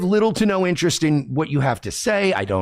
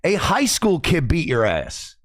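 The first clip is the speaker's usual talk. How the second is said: high-pitched indignant comeback; heated retort; 5 semitones higher than usual. Real, not acted. Streamer firing back at Aaron's boast, heated retort. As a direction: fire back, pitch starting high and falling.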